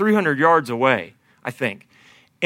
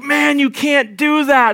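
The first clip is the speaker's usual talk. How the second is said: deafened guide yelling; 8 semitones higher, slower than usual. Retold or imitated. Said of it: "He's like".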